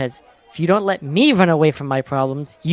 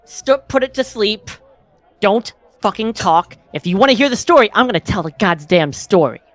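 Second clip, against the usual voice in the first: angry; 4 semitones higher, 5 dB louder than usual. Acted. Angry in-character rant.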